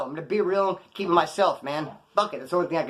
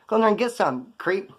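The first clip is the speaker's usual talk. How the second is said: mock egging on; 5 semitones higher than usual. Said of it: "No, it's like".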